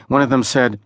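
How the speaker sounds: ordinary delivery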